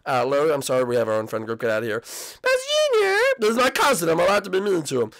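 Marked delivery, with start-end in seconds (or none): 2.0-5.1 mom voice. Acted. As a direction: speak as a gentle mom to her son. Mom voice agrees.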